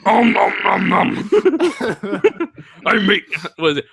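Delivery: a light cartoon monster munching; mild Cookie Monster. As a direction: growl it like a cookie-mad puppet. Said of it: "as Cookie Monster".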